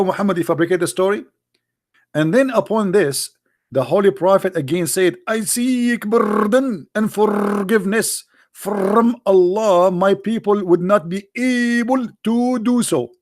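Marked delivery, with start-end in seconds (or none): 5.3-13.1 slow mock plea. Mock pleading, slowed down.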